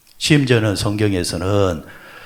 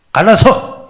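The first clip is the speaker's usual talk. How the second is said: sudden high furious yell; shouted quarrel; 12 semitones higher, 11 dB louder, slower than usual. Retold or imitated. Spouse shouting at the other in a fight. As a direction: yell it like ending the marriage. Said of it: "이러잖아요".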